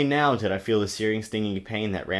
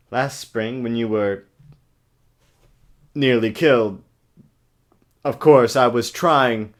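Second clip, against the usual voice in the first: overwrought brooding hero, loud and halting; Robert Pattinson impression; 4 dB louder than usual. Mocking the movie hero's line, dramatic halting delivery. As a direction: play the tortured vampire with big pauses. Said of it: "I was channeling Robert Pattinson's acting".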